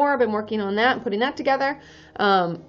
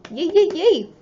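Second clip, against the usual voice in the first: excited cheering; 6 semitones higher than usual. Real, not acted. Cheering viewer news.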